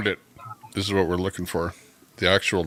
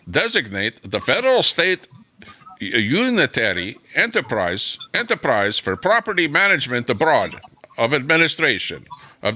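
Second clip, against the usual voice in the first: put-on Putin with a Russian accent; 2 semitones higher than usual. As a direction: read it like a Russian leader's decree in a put-on Russian accent. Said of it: "I'll read it in Russian, with a Russian accent".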